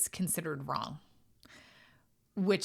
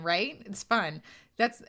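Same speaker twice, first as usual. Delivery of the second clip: ordinary delivery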